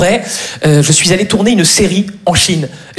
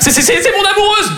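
high, flustered protest; hammed-up desperate excuse; panicked stammer; 12 semitones higher than usual. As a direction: stutter it out while fleeing. Stammers excuse while chased by agents.

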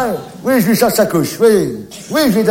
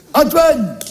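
calling out; 5 semitones higher than usual. Acted. Calling the lost child's name.

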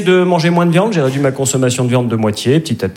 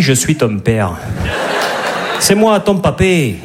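put-on Darth Vader with a Midi accent; 3 semitones higher than usual. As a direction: play Vader as a Provençal grandpa. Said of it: "Dark Vador avec l'accent du Midi".

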